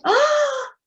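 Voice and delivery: put-on a worried mother who forgot her baby; mild alarm, then fretting; fretful mother. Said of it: "until she said".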